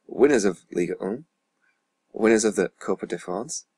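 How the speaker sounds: put-on light French accent on the trophy names. Gamer listing trophies won, light put-on French accent. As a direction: attempt French names with a lilting rise. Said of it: "Put on the best French accent for this".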